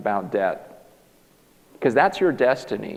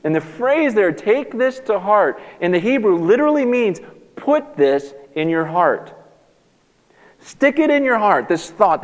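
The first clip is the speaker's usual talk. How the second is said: high, loud, urgent sermon delivery; full-force preaching; 7 semitones higher, 7 dB louder than usual. Acted. Pastor urging the church to remember death, in a full-force preaching voice. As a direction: preach it hard to the congregation.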